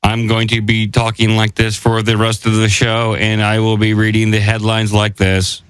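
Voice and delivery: flat, even monotone robot. Pretend. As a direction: speak like a stiff machine. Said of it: "Sound like humans impersonating robots".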